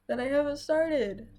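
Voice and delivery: words stretched through a yawn. Real, not acted. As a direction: yawn while speaking, slow and loud. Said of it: "sorry that yawn came out of nowhere".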